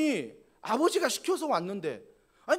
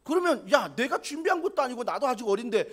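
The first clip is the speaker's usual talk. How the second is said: angry protest; 3 semitones higher than usual. Retold or imitated. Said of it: "저 같으면 뭐 화를 냈거든요".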